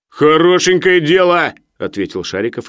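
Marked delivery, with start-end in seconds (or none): 0.1-1.5 high, loud, drawn-out dismay; alarmed protest. A narrator's reading. Sharikov hears he must pay up, alarmed. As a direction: balk in alarm. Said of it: "испугавшись".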